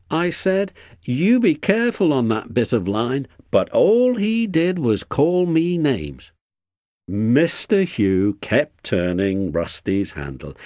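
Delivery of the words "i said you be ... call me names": high, aggrieved, cross complaint. A narrator's reading. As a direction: recount the slight crossly, voice raised. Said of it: "said Rusty crossly".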